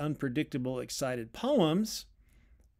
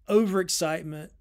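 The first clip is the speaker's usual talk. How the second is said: excited; 4 semitones higher, 6 dB louder than usual. Shown as a demonstration. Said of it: "names overexcitement while performing it".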